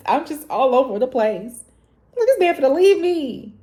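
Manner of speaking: high-pitched, loud, frantic self-talk; mock panic; panicked spiral. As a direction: retell the freak-out in a high voice. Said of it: "I was just like".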